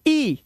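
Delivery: ई held high and long; long vowel. Shown as a demonstration. Teacher answers her own question on EI, ई held long. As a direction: sustain ई as a long ee. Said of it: "ये भी long vowel sound है".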